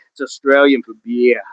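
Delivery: low, lightly put-on Aussie slogan; amateur Australian accent. Joking it's best work, low mock Australian accent. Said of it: "If my best work".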